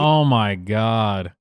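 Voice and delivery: slow, drawn-out oh my God; exasperated disbelief. Real, not acted. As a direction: stretch it out in sheer disbelief. Disbelief at the clip.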